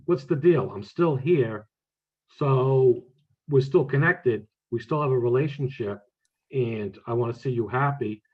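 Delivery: mildly firm, retold daughter's scolding; stern lecture. Daughter lecturing her grieving mother, mildly stern. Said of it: "like a stern lecture".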